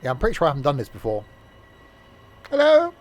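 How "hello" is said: calling out. Real, not acted. Calling out to a game passenger.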